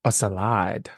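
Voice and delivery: "salad" said as sa-LAHD; French-style pronunciation. Shown as a demonstration. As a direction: stress the end of "salad", with an ah. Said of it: "Is it like a French way".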